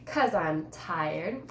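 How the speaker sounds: slow, drawn-out sassy reply. Acted. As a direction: sass it back, dragging the words. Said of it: "I sassed back".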